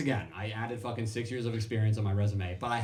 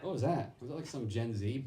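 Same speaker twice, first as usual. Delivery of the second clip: ordinary talk, nothing marked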